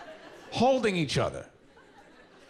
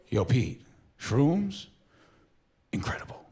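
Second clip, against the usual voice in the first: friend wiping his eyes after the trip; dazed after the trip. Retold or imitated.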